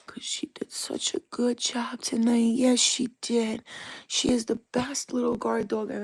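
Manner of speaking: high, slow, hushed praise for the dog; pet praise whisper. Real, not acted. Praising the dog after scare.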